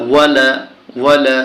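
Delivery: ওয়ালা with both vowels short; no elongation. Shown as a demonstration. Teacher shows a vowel with no pull, short ওয়ালা. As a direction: say ওয়ালা without stretching the last a. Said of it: "এখানে টান হবে না".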